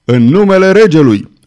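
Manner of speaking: loud, commanding shout at the door; officer's shout. A narrator's reading. Officer demanding entry at the rebels' door, loud shout. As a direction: pound the door and call out in the king's name. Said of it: "bătu cu putere strigând".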